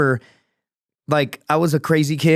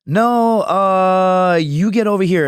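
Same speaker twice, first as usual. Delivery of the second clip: higher, louder put-on refusal; mock refusal; 6 semitones higher, 4 dB louder, much slower than usual. Refusing naked coworkers' call, higher mock refusal. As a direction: toss it back at them, mock high.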